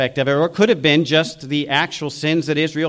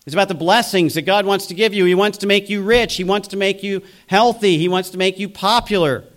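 higher-pitched, insistent sales pitch, lightly mocking; prosperity preacher; 4 semitones higher, 3 dB louder than usual. TV healer promising believers riches and health, mock-enthusiastic pitch. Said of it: "these great people who want to tell you".

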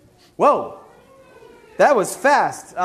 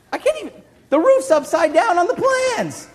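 exasperated; 9 semitones higher, 5 dB louder than usual. Acted. Exasperated at upside-down plans.

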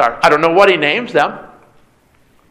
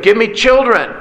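mildly angry, higher-pitched plea; angry demand; 5 semitones higher than usual. Retold or imitated. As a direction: voice Rachel's jealous demand with a touch of anger. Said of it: "and she becomes angry".

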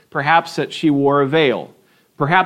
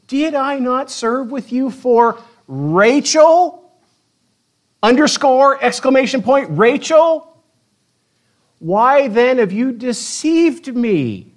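dramatic reading; 6 semitones higher, slower than usual. Acted. Reading Jacob's protest dramatically.

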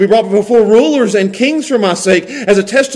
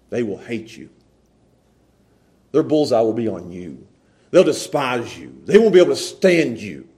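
hushed earnest preaching, much lower and softer; 11 semitones lower, 8 dB quieter than usual. Real, not acted. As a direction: draw them in with a hushed voice. Quiet intense preaching stretch.

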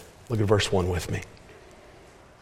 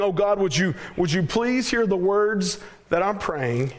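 higher-pitched plea to God; earnest pleading prayer; 6 semitones higher than usual. Acted. Preacher voicing David begging God to hear, pleading. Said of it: "So David here pleading".

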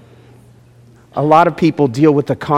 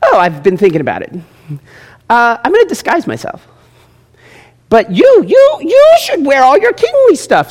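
lightly voiced sly Ahab; 7 semitones higher than usual.

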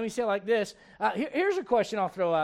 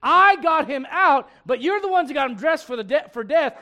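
emphatic loud Jesus; 4 semitones higher, 8 dB louder than usual. Retold or imitated. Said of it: "in other words".

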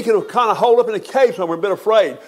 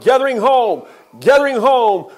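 joyful proclaiming; 4 semitones higher than usual. Acted. Preacher exults over hymn title.

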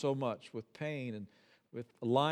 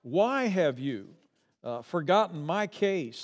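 pleading complaint; 3 semitones higher, 5 dB louder than usual. Retold or imitated. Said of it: "we say things like".

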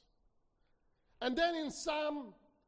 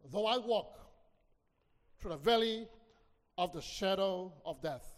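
scripture recitation; 3 semitones lower than usual. Acted. Preacher reading the psalm to the congregation, solemn. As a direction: recite the verse with weight.

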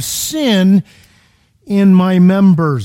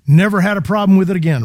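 brisk, breezy sarcastic boast; mock claim; faster than usual. Shown as a demonstration. Preacher mocking the idea sin vanishes at salvation, sarcastic. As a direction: toss off "never had a problem with it again" as a naive claim.

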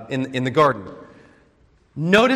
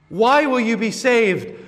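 pressing question; 4 semitones higher than usual. Acted. Pastor repeats the question.

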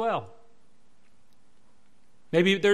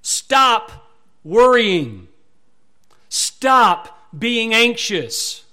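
forceful command; 3 semitones higher, 8 dB louder, much slower than usual. Acted. Preacher giving the Greek sense.

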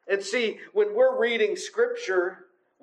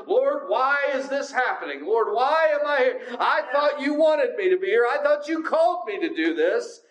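acted protest to God, pitched up; mock angry complaint; 3 semitones higher than usual. Believer complaining to the Lord about their calling, acted angry. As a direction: put on an aggrieved, challenging prayer. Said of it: "gone to the Lord just angry".

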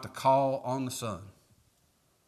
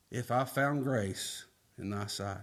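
soft humble; 3 semitones lower, 7 dB quieter than usual. Retold or imitated. Slow soft humble quote.

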